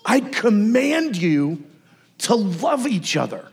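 solemn intensity, stretching each phrase; intense command. Acted. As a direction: deliver it as a weighty divine order. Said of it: "with the same level of intensity".

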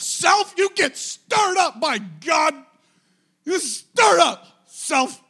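loud, slow, high shout at himself; self-rebuke shout. Shown as a demonstration. Pastor demonstrating how to shout at yourself. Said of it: "rebuke yourself".

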